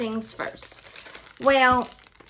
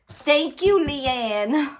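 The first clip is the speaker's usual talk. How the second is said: high, raised thank-you; excited thanks; 5 semitones higher, much slower than usual. Real, not acted. Vlogger thanking friend for gift, excited. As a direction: sing out your thanks.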